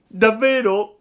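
high, loud cry of delight; joyful cry. Acted. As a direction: leap with joy on the word. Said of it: "gridò Pinocchio saltando dall'allegrezza". (Pinocchio grida di gioia, voce alta)

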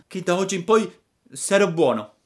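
high tearful puppet voice; a lightly sobbed promise; mild sobbing promise. Acted. Pinocchio promette a Geppetto di essere buono, singhiozzando. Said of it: "disse il burattino singhiozzando".

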